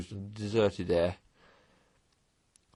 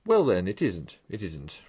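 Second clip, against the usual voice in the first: soothing. Acted. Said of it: "replied the Mole soothingly".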